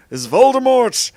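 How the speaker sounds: high, loud, drawn-out name; big melodramatic announcement; dramatic reveal. A narrator's reading. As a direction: stretch the villain's name theatrically.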